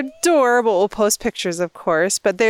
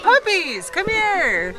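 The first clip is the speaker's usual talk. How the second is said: imitating puppy callers; 8 semitones higher, much slower than usual. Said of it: "They're like".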